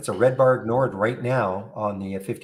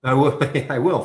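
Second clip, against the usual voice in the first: laughing; 4 semitones higher, 4 dB louder than usual. Real, not acted. Laughs at vacuuming joke.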